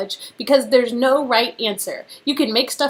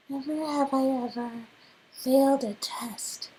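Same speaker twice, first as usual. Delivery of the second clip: breathy secret whisper; 6 dB quieter than usual. Acted. Whispers her guilty secret to the group.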